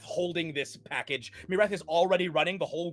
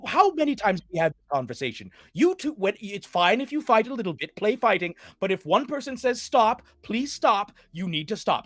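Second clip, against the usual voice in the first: scolding mother; 4 semitones higher, 4 dB louder than usual. Acted. Mother scolding her children.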